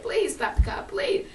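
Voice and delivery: loud plea climbing high at the end; mother helpless with laughter. Retold or imitated. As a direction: imitate Mama begging through hilarity. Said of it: "we made us laugh more".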